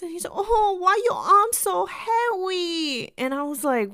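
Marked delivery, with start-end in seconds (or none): 0.3-3.1 high, loud, slow mock Asian accent; thick Asian accent. Customer startled by the teller's arms, mock thick Asian accent. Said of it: "he had a really thick accent".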